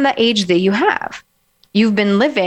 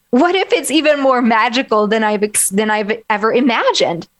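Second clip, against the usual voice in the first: bright rising hopeful questions, a bit higher; hopeful lift; 4 semitones higher than usual. Shown as a demonstration. Coach lifting clients into a hopeful mood. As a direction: sound like the future could be magical. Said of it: "step into the".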